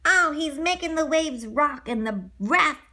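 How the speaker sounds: high, frantic cries; panicked excitement. Acted. Pinocchio fleeing the whale on the raft, high frantic cries. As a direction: scream it high while paddling for life.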